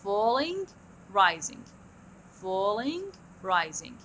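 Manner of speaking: falling then rising pitch; tune demo. Shown as a demonstration. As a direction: sing the fall-rise shape. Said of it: "شوفوها".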